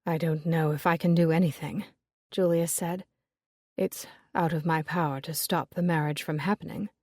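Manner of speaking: a hint of a dejected suitor; Julius, resigned. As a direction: say it as a man out of options. Julius voiced lower than narration.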